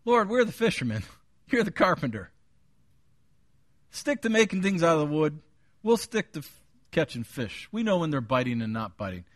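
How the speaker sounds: skeptical retort to an amateur; mildly sarcastic Peter. Retold or imitated. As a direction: push back with a touch of sarcasm. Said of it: "maybe sarcastic, essentially saying this".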